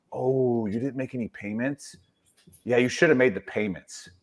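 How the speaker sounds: lightly mimicked disapproving clerk; gently chide, lightly imitating the DMV clerk; Brandon impression. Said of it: "it's just the way he talks".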